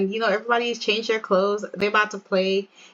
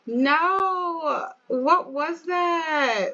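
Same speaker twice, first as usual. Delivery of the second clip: high, drawn-out exclamation; mock disbelief; 5 semitones higher, much slower than usual. Real, not acted. Player reacts to a bad play, incredulous. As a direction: stretch it out in disbelief, pitched up.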